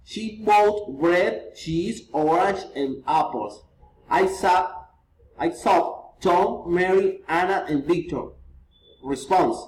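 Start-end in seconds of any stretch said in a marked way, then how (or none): 0.0-3.6 slow list, dropping on "apples"; rising list intonation. Shown as a demonstration. 5.4-8.3 names listed, closing down on "Victor"; enumerating names with a final fall on "Victor"; rising list intonation. Shown as a demonstration.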